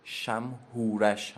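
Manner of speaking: شمهورش slow and clear, each syllable given weight; final corrected شمهورش, said deliberately; exact pronunciation. Shown as a demonstration. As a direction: give the correct شمهورش slowly.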